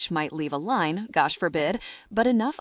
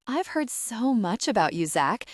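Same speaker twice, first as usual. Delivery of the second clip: sultry; 4 semitones higher than usual. Acted. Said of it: "her voice a sultry tone".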